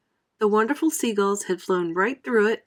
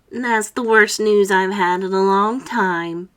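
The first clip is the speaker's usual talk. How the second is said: slow, glum grumble; gloomy earthworm; 4 dB louder, slower than usual. Acted. Earthworm grumbling about the centipede, slow gloom. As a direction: sound utterly put out. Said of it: "the earthworm said".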